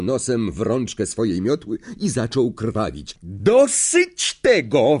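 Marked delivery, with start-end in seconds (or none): 3.2-5.0 slow, stern mild yell; mild shout. Acted. Madam Hooch to Flint and George, stern mild yell. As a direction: cut the fight short. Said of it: "wrzasnęła pani Hooch".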